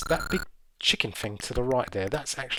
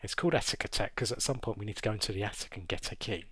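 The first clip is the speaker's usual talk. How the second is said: whispering; 4 semitones lower, 7 dB quieter, faster than usual. Real, not acted. Aside to the audience.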